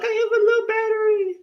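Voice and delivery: high, whining robotic complaint; whiny smoke alarm voice. Retold or imitated. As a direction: squeak it out like a beeping gadget. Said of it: "It's whining".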